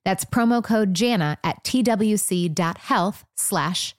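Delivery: polished testimonial ad read; scripted, measured podcast promo. Shown as a demonstration. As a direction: read the sponsor spot evenly and clearly. Host reads sponsor testimonial.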